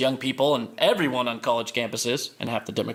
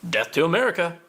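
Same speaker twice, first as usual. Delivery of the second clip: tame version of a war cry; a token, toned-down rallying cry; half-hearted slogan; 3 semitones higher than usual. Acted. Repeats slogan after suburban confession.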